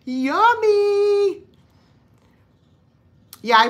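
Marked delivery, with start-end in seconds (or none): 0.1-1.4 higher yummy. Real, not acted. Repeats yummy, bigger.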